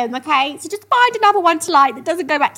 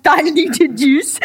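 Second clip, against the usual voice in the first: laughing; 4 semitones higher, 6 dB louder, much slower than usual. Real, not acted. Mocking the phrase while laughing.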